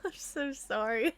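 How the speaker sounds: plain reading voice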